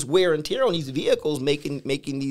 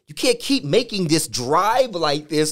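body's warning; 4 semitones higher, 4 dB louder than usual. Retold or imitated. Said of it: "my body began to tell me".

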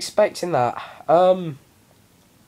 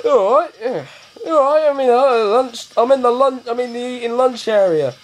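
higher, louder imitation of friend; friend on phone; 5 semitones higher, 3 dB louder than usual. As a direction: mimic the flustered friend on the phone. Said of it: "He's like".

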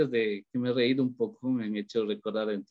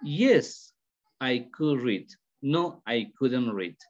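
short-answer demo; much slower than usual. Shown as a demonstration. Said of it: "It is a short answer".

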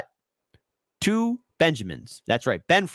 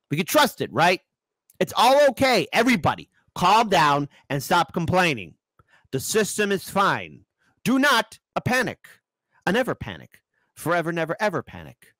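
mock soothing; 4 semitones higher than usual.

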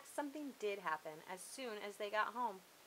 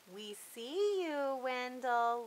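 slow, loud gloating call; crowing taunt; 5 semitones higher, 7 dB louder, much slower than usual. A narrator's reading. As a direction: crow it out, savouring the catch. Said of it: "Leona crowed".

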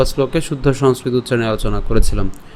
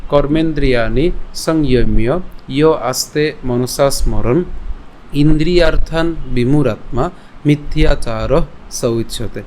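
slow recitation. Shown as a demonstration. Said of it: "আবার যদি প্রথম থেকে বলি".

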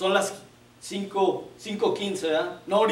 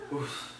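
soft huff of annoyance; 5 semitones lower, 11 dB quieter than usual. Retold or imitated. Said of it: "empiezan a hacer sonido".

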